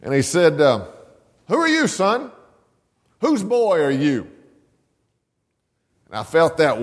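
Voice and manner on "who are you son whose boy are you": much higher, lightly voiced preacher; preacher's question. Preacher stopping the boy at the church door, higher questioning voice. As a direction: ask the boy searchingly.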